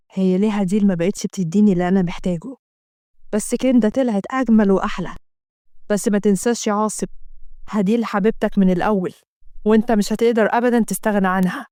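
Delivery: a hint of guilty husband; man thinking to himself. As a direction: torn man arguing with himself. Assem's inner thoughts.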